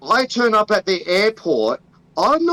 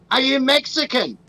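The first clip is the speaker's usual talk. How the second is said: higher mock officer asking suspiciously; mock customs officer; 5 semitones higher than usual. Officer questions Australian traveller at airport, mock-suspicious higher voice. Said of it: "I'd be like".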